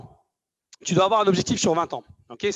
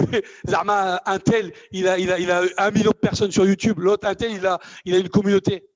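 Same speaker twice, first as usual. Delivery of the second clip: nagging inner voice; 2 semitones higher, 4 dB louder than usual. Acted. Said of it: "J'avais la petite voix, elle me dit".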